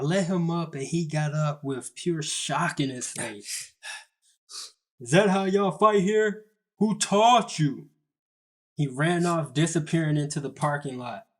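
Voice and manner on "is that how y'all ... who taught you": higher, louder outraged imitation; acted indignation. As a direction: demand answers like a shocked opponent. Acted indignant shout of shocked opponent.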